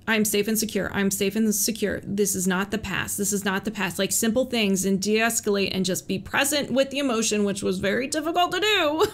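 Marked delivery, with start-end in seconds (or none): 0.1-4.0 repeated mantra. Retold or imitated. Repeating her mantra to calm herself, gently. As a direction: soothe yourself with each repeat. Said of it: "I would just repeat".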